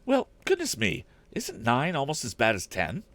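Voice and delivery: a worried housekeeper pleading with the inventor; housekeeper's voice. A narrator's reading. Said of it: "went on Missus Baggert".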